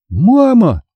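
high, insistent cry for Mum; urgent child's call, drawn out. A narrator's reading. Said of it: "повторила я громче".

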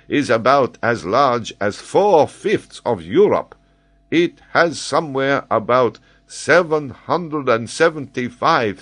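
an excitable scholar holding forth; high, animated geographer explaining; Paganel, eager learned Frenchman. Acted.

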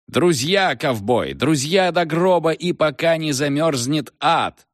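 high, fervent cowboy-movie oath; moved exclamation. A narrator's reading. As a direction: declaim it like a film caption hero. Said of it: "вскричал Фредди, глубоко растроганный".

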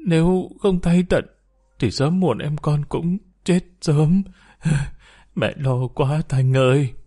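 mother crying to her daughter on the phone, half-sobbing. Acted. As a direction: voice catching between sobs over her son in hospital. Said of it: "Bà Hương khóc ngất".

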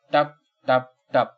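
slow, spaced-out drip imitation; slow "tap... tap..." of drops; dripping water sound. A narrator's reading. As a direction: voice each water drop separately. Narrator imitates falling water drops.

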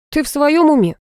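high-pitched incredulous question; aghast, questioning their sanity; appalled disbelief, narrated; horrified. A narrator's reading. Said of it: "ужаснулся Артём".

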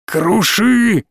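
high, drawn-out gleeful squeal; squealed cry. A narrator's reading. Madman squeals a command after laughing, squealed. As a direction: squeal it out, pitched well up. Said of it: "Хас засмеялся и взвизгнул".

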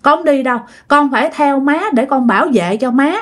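gently stubborn, protective insistence; mild refusal. Retold or imitated. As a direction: imitate a child refusing to leave. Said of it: "Không chịu các bạn".

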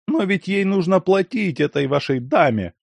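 high pained moan; groaning lament. A narrator's reading. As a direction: groan it as if in pain. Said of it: "застонал Ляховский".

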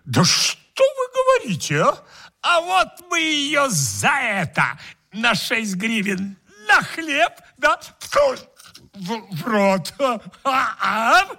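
high, smug guest voice; greedy guest voice. Acted.

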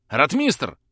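urgent call for the captain. A narrator's reading. Calling to comrade in dark.

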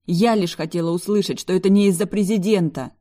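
loud angry confession; yelling. A narrator's reading. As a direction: yell it across the whole car. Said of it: "заорала я на всю машину".

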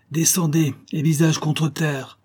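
high barked command, slowing on visage contre terre; bandit chief's shout. Acted. Bandit chief shouting at the traveller to lie down. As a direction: order the traveller face down. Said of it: "crie le chef de la bande".

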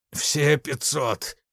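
very slow, strangled croak; wheezed out. A narrator's reading. Ignashevich being choked by the major, croaking the offer. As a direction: force it out through a squeezed throat. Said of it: "прохрипел Игнашевич".

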